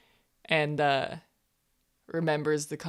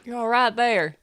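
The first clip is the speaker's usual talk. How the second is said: a higher put-on voice; character voice; 7 semitones higher, 6 dB louder than usual. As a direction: reassure him, in character. Player voices character reassuring NPC.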